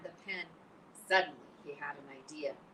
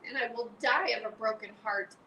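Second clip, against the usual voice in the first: higher, louder desperate plea; 6 semitones higher, 6 dB louder than usual. Acted. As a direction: Wilbur begs in desperation. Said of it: "said Wilbur in desperation".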